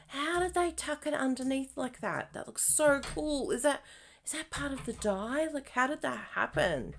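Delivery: mock amazement. Reenacting herself spotting the die, marvelling. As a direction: act out first seeing the die. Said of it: "That was literally a reenactment of me seeing this die".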